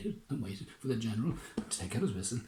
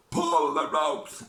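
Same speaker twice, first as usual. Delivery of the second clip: slow, drawn-out shout; 5 semitones higher, 7 dB louder, much slower than usual. Acted. Fishermen shouting the order, slow and louder. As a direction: call out to haul the ropes. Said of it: "the fishermen shouted".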